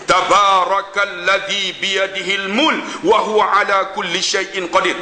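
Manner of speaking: slow, measured Quranic chanting; Quran recitation. Shown as a demonstration. Preacher recites a verse to the congregation, slow and measured. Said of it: "bahasa Al-Quran".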